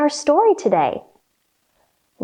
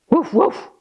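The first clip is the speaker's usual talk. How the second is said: dog woof; 2 semitones higher than usual. Acted. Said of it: "said the startled dog".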